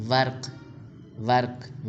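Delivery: ورق as "varq", no vowel between r and q; one-syllable pronunciation. Shown as a demonstration. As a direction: say ورق with r and q run together. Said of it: "ورق نہیں بولنا". (ورق کو "وَرْق" بولیں، ر ساکن)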